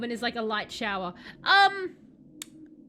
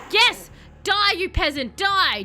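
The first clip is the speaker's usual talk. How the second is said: loud, higher mock-villain yell at a victim; villainous shout; 8 semitones higher, 9 dB louder, slower than usual. Vampire player gloating at a helpless victim, loud hammed-up shout.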